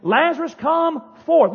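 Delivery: restrained re-enactment of a shouted summons; loud voice. Acted. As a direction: call it out with authority. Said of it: "he said with a loud voice".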